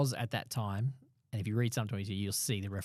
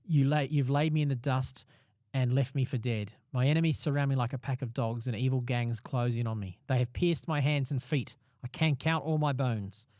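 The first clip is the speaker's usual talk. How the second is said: measured psalm reading with emphatic phrasing; deliberate, declaimed verse; scripture reading. Acted. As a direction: read the psalm aloud with earnest weight. Reads a psalm aloud.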